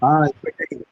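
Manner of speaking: stuffy nose from a cold; talking through a blocked nose. Real, not acted. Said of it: "சளி வேற பிடிச்சிச்சு".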